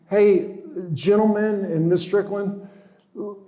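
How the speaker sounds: slow, moved address to the gentlemen and Miss Strickland; heartfelt, slow. Real, not acted. To the hosts, recalling the hug, slow and moved. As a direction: let it land slowly, still moved. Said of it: "I still get emotional".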